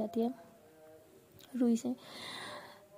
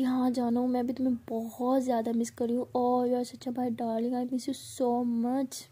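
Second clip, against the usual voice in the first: slow, syrupy sweet-talk to make her jealous; mock lovey-dovey; slower than usual. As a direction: drag it out like a teasing lover. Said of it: "इसको और ज़्यादा jealous करवाने के लिए ऐसी बात करती है". (धीमी, मीठी चिढ़ाने वाली प्यार भरी बातें)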